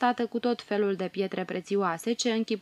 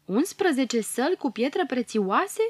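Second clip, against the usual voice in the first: amazed question; 5 semitones higher than usual. Acted. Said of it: "se miră Mioara".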